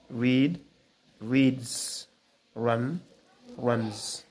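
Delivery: "goes", "tries", "runs" ending in a buzzed "z"; dictionary pronunciation. Shown as a demonstration. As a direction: read each word slowly, ending in a voiced "z". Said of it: "sound Z".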